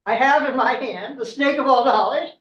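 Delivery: put-on a boy thrilled with his catch; triumphant boy. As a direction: crow over the prize you caught. Boy triumphantly grabs magic snake.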